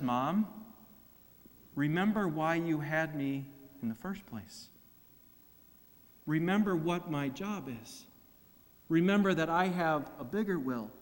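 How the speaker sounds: soft, calm and quiet correction; gentle rebuke. Pretend. Jesus answering his mother after the temple, gentle quiet rebuke. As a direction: lovingly set his mother straight. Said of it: "with a gentle rebuke".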